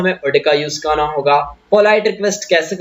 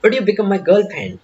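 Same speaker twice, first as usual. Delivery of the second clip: slow polite ask; much slower than usual. Shown as a demonstration. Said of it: "polite यानी एकदम polite हो जाओ".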